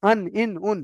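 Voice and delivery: "আন, ইন, উন" with n just above the tooth roots; tongue-tip nun. Shown as a demonstration. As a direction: show "আন, ইন, উন", tongue tip held above the lam spot. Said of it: "একটু উপরে গিয়ে লাগবে".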